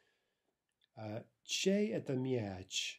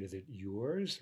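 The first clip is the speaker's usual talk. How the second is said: yours lifted as the point of the question; rising on yours; 3 semitones lower than usual. Shown as a demonstration. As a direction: let yours rise up at the end. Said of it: "rising on the".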